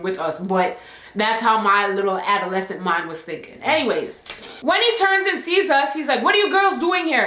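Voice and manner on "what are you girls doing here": mock angry teacher, higher pitch; a hint of a teacher snapping at girls; mad voice. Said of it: "in a mad voice".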